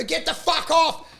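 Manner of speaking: high, slow mock yell; retold angry order. Comic ordering a bombing act off, high retold yell. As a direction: act out throwing someone off stage. Yelling a performer off stage.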